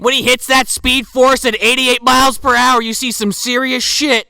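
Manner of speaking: loud, high movie-quote voice; mock excited proclamation. Joking about speed at the pit, hammed-up proclamation. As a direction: belt it out like a famous movie line. Movie line parodied as joke.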